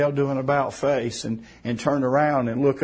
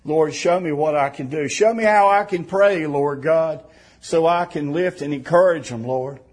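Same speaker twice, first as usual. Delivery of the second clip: raised, pleading call to the Lord; fervent prayer; 4 semitones higher, 4 dB louder than usual. Real, not acted. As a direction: pray aloud with urgency, then settle.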